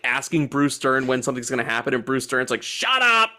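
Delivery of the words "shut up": rude retold snap. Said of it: "totally rude to them".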